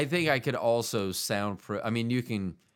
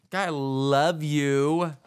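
drawn-out tender; much slower than usual. Acted. Slow affectionate sign-off.

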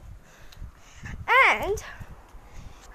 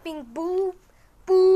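imitated boop; 4 dB louder, much slower than usual. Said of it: "you're just, like".

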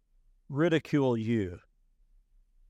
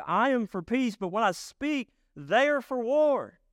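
frustrated inflection; 8 semitones higher than usual. Shown as a demonstration. Preacher voicing the psalmist's frustration to his congregation, exasperated rising cry. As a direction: let the frustration build to the last word. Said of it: "that feels like that's probably the inflection".

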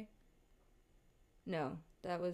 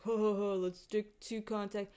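mock glee. Mocks an idea they would reject.

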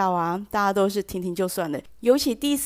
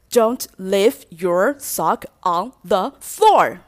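final stern warning; 6 dB louder, much slower than usual. Shown as a demonstration. Fed-up cleaner giving the final stern warning. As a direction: spell out each word as a last warning. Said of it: "第三句的时候呢".

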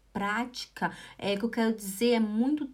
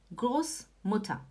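slow model word; 5 dB quieter, slower than usual. Shown as a demonstration. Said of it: "falando rápido".

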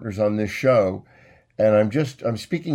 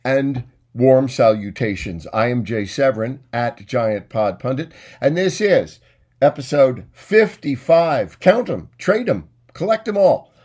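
showman announcer; 3 dB louder than usual. Acted. Host welcoming listeners to his show, hammed-up announcer. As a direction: roll out the greeting like a carnival barker. Hammed-up podcast opening intro.

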